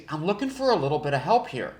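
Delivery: genuinely curious ask; curiosity in the voice. Shown as a demonstration. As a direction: sound like you really want to know. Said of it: "it sounds like an actual curiosity tone".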